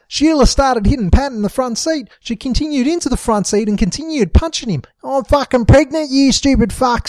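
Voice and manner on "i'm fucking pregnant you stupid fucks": high, raised yell. A narrator's reading. Sheila yelling while kicking and punching, high and raised. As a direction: hurl it at them while fighting. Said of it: "she yelled".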